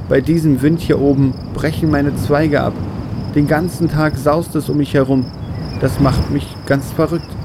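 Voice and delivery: grumbling tree. Acted. Baobab moaning about the wind on the mountain, grumbling. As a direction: complain like a tree fed up with its spot. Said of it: "begann der Baum zu maulen".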